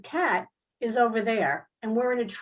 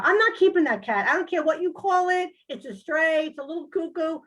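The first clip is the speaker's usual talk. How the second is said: high, loud, exasperated refusal; indignant protest; 6 semitones higher, 3 dB louder than usual. Retold or imitated. Protesting to Sandy about keeping the alien cat, high and indignant. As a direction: push back hard, voice jumping up.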